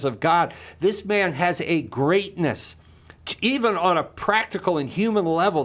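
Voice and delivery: impassioned outrage, voice lifted high; passionate. Real, not acted. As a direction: plead for his dignity with rising fervour. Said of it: "I get passionate about it".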